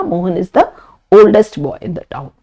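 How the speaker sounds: oldest said slowly and clearly; teacher's slow model sentence; slow correct form. Shown as a demonstration. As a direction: spell out the right sentence slowly. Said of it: "बोलना गलत रहेगा".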